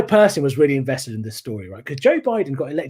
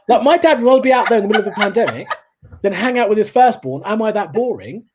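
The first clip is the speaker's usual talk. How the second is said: lightly indignant, raised pitch; mock offended; 5 semitones higher, 3 dB louder than usual. Son hurt that dad prefers the pandemic, mock offended. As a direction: act put out and a little wounded. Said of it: "which I found quite offensive".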